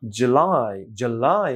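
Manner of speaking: জুলাই with stress on লাই; stress on last syllable. Shown as a demonstration. Teacher showing the stress in July. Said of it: "এখানে একটা stress আছে".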